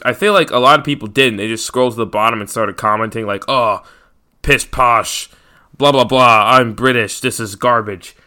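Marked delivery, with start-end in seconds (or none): 3.5-8.1 mock British commenter sneer; a lightly done snooty British accent. A fan mocking British commenters, light British accent. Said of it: "my British impression".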